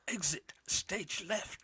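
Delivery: drawn-out, high, loud cartoon catchphrase; Snagglepuss. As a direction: stretch it out big like an old cartoon character. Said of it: "he used to say".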